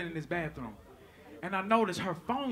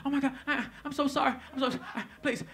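higher, halting mock-tearful apology; imitating near tears; 4 semitones higher, 4 dB quieter, faster than usual. Girl apologizing to him, mock near tears. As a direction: stammer it out as if about to cry. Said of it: "she was finna start crying".

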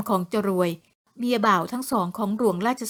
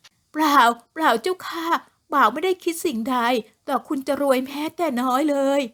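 trembling with fear; 4 semitones higher than usual. Acted. Terrified servant Leng pleads with her mistress, trembling with fear. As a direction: plead in fear, voice raised and shaking. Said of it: "แล้วกล่าวด้วยเสียงสั่นๆ".

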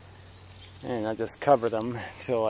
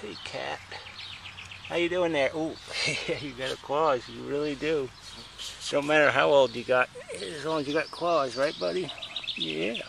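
high sing-song voice for the cat; pet talk; 4 semitones higher than usual. Real, not acted. Talking to the cat.

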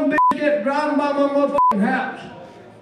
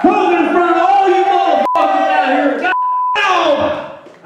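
comic yell; 4 semitones higher, 5 dB louder than usual. Acted. Comic yelling at the crowd.

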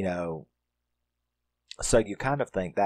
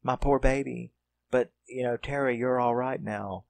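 upset mother; 3 semitones higher than usual. Retold or imitated. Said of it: "But she's upset".

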